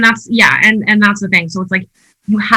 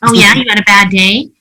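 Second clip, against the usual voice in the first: mocking one-upper; 5 dB louder than usual. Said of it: "It drives me crazy when people are like".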